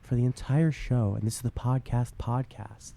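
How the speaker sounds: calm public radio host; NPR voice. Shown as a demonstration. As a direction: welcome listeners like NPR. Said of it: "we talk like it's the N P R voice".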